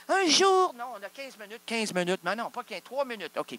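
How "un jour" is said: high loud disbelief; outraged high squeal; shocked. Acted. Shocked at three hours.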